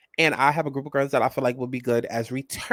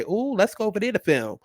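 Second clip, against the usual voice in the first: mock TV producer excitement; 7 semitones higher than usual. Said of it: "no Mona Scott Young say".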